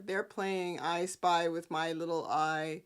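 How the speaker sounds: ordinary delivery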